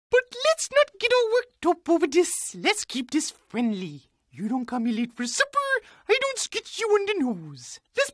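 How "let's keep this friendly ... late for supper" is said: calm and soothing. Acted. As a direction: ease off and make peace, gently. Calming down a mock quarrel.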